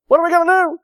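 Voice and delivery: high, loud, anxious cry; the servant's fearful question; high-pitched fretful outcry; panic. Acted.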